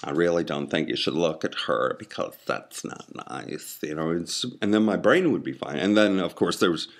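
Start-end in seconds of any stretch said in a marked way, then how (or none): 0.0-3.8 lightly voiced fussy camp heart; a hint of a prim gay scolding. Heart scolding him for looking at a woman, lightly camp. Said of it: "my heart's gay".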